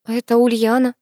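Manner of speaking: plain reading voice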